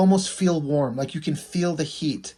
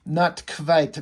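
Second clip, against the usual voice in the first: put-on quite said as kvite in a light Russian accent; agent's "Not quite" with kvite, a hint of Russian accent. Russian agent answers the nerd with a light Russian accent. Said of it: "to give her the Russian accent".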